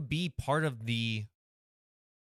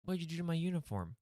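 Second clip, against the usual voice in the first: officer character; 6 semitones higher, 4 dB quieter, much faster than usual. Acted. Cop character complains.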